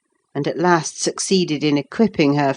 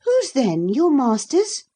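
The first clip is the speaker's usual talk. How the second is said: put-on high, haughty young girl; a spoiled girl prying at the lad; Cathy's voice; 10 semitones higher than usual. A narrator's reading. To the sullen lad, a high haughty girl.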